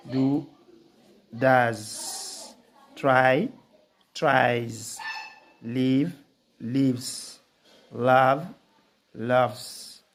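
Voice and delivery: "goes", "tries", "runs" ending in a buzzed "z"; dictionary pronunciation. Shown as a demonstration. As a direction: read each word slowly, ending in a voiced "z". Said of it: "sound Z".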